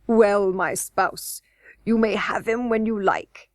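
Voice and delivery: a lightly voiced gruff goblin king, slow start; amused king humouring his wife. A narrator's reading. King laughing off the queen, lightly voiced.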